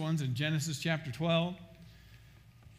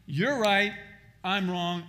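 confessing cry; 3 semitones higher, 5 dB louder, slower than usual. Acted. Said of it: "just rolling over and saying".

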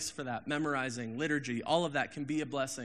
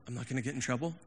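softer, half-whispered disbelief; startled hushed question; 3 semitones lower, 9 dB quieter, faster than usual. Retold or imitated. Pastor retelling his reaction to Steele, hushed and unsure. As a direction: ask it low, as if you might get caught. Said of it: "I was like".

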